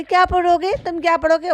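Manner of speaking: put-on high sing-song question to a child; mocking madam. Vlogger imitating madam quizzing her son, high mimicry. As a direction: pitch it up like a fussy mother. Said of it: "बच्चे से पूछ रही".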